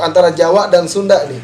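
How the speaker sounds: normal talking voice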